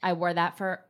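talking around a retainer; words slurred by Invisalign; wearing Invisalign. Real, not acted. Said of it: "It's my Invisalign that I'm wearing".

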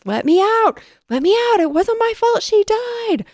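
very high, loud mock panic; hammed-up frantic screaming; panicked shouting. A narrator's reading. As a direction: cry out to escape in theatrical terror. Press hammering on doors in panic.

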